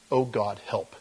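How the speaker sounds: small, low plea, fading away; understated prayer, dropping soft; quiet cry for help. Acted. Sinner crying out to God, quiet plea. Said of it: "all you do is cry out to me".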